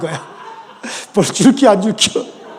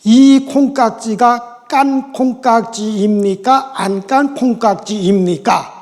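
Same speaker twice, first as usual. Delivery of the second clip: standard Korean; slower than usual. Shown as a demonstration. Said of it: "예를 들어서 표준말로는".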